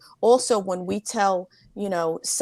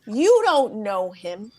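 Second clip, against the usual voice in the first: firm aunt; slower than usual. Retold or imitated. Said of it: "She goes".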